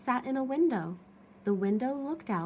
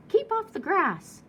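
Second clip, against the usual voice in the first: higher, louder grumpy shout; angry shout; 10 semitones higher, 5 dB louder than usual. Acted. Cactus shouting at a cowboy striding past. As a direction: snap the order out. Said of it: "shouted Hank".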